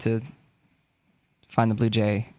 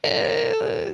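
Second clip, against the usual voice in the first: high-pitched comic German warm-up noise; a silly, high attempt at a German accent; mock German accent. Shown as a demonstration. Asked to show a German accent, silly high voice. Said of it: "your voice dabbles in the German accent".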